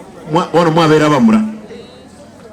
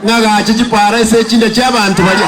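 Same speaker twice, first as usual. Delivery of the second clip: rally speech; 3 semitones higher than usual. Real, not acted. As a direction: fire up the crowd. Rally speaker rousing crowd.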